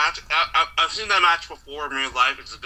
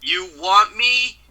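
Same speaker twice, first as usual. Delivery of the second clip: slow, loud imitated challenge, yelled; mock challenge shout; 3 semitones higher, 5 dB louder, much slower than usual. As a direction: bellow it like a wrestler calling out a rival. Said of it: "The best you could say is".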